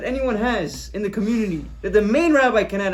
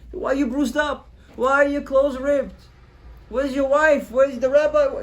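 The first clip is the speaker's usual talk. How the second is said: louder, pressing questions; alarmed demand; 7 semitones higher, 4 dB louder than usual. Acted. Father demanding answers from the bruised son, loud and alarmed. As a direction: insist on answers now.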